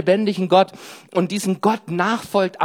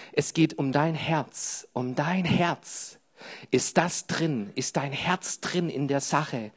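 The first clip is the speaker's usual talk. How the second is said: soft appeal; 5 dB quieter, slower than usual. Acted.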